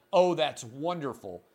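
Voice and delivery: mock-pleased sarcasm; dry sarcastic reaction. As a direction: say it as if delighted, meaning the opposite. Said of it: "That's a sarcastic comment".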